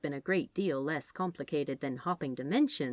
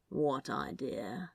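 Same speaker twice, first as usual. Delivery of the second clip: cautious; 4 semitones lower, 5 dB quieter, slower than usual. A narrator's reading. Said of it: "Crowley asked cautiously".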